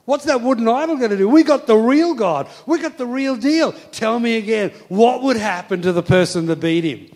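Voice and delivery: fired-up, building to high and loud; impassioned, swelling boast of faith; David. Acted. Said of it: "passion in his heart".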